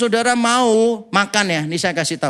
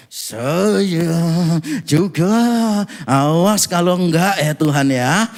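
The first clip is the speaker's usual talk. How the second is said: demanding tone; 6 semitones lower, much slower than usual. Retold or imitated. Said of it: "gayanya apa".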